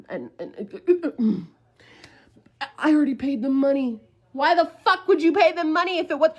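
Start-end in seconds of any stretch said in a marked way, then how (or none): 4.3-6.3 high, loud indignant retort; exasperated, raised-voice challenge; outraged disbelief. Retold or imitated. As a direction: fire the question back, loud and high.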